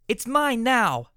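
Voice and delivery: high, slow, loud gloat; drawn-out loud mine; triumphant declaration. Acted. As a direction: stretch out mine like a winner. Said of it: "Medley declared".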